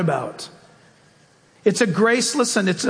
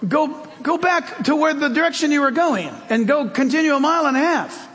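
higher, lightly imitated satnav; muddled GPS rattling off directions; a hint of a female navigation voice, pitched up; GPS girl's voice; 5 semitones higher than usual. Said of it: "it's in a girl's voice".

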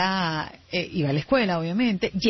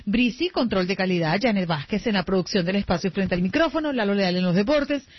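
radio host intro. Acted. Host presents the radio crew, announcer read. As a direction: announce the team on air.

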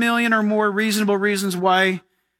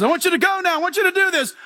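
higher, insistent order; God commanding; 6 semitones higher, faster than usual. Acted. Preacher voices God ordering Moses, insistent. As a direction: press the command firmly. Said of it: "God says".

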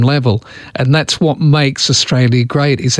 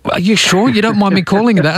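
imitated polite foreigner; 7 semitones higher than usual. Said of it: "they said".

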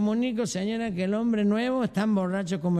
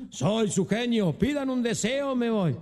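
slow, booming genie; 3 semitones higher, slower than usual. Acted. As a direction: announce yourself like a genie. Genie repeats.

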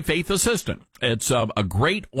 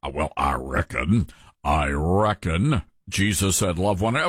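mock objector voice; 8 semitones lower than usual. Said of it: "You say".

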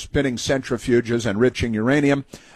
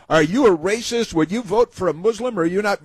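mock poll question; 6 semitones higher than usual. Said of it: "and they said".

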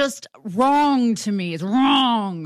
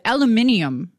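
British aluminium; 3 dB louder than usual. Retold or imitated. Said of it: "he said".

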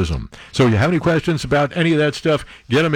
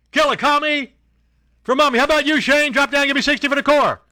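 drill sergeant; 11 semitones higher than usual. Acted. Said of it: "sergeant role continues".

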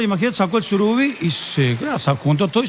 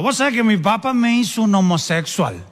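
lightly voiced drunk, pitched higher; borracho de chiste; 5 semitones higher than usual. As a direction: play a chatty drunk at the bar, lightly. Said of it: "había esos dos negros borrachos". (voz de borracho apenas insinuada)

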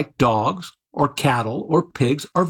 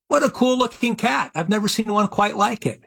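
lightly acted wonder, pitched higher; mild mock admiration; 6 semitones higher than usual. Imagined onlooker spotting a cat in the backyard, lightly acted admiration. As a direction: play someone pleasantly impressed by a sight.

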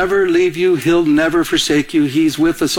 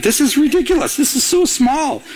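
cramped complaint; 9 semitones higher than usual. Retold or imitated. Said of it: "I'm like".

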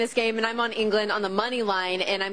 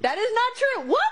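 much higher, laughing through the words; laughing denial; 13 semitones higher than usual. Real, not acted. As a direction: laugh it off while protesting. Laughing denial of teasing accusation.

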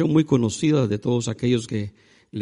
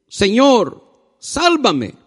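high, projected cry within a reading; 9 semitones higher, 7 dB louder, much slower than usual. A narrator's reading. Peter sinking in the water, crying out to Jesus. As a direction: call out higher and louder, as a narrated plea. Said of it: "Dio voces diciendo".

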